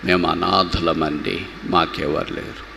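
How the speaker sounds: slow, understated plea of the abandoned; mildly forlorn. Acted. People who feel orphaned telling their plight, mildly forlorn. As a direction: say it slowly, a touch helpless. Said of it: "కొంతమంది అంటారు కదా".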